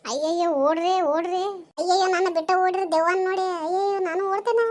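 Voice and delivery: fast, high, loud frightened cries; panicked shrieks. Acted. Fleeing the ghost in the dark, fast panicked cries to run. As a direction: scream at the others to run.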